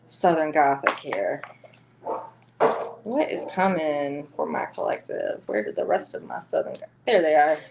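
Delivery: mild Southern lilt on "Southern Gothic"; Southern accent. Real, not acted. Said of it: "My Southern girl accent's coming out".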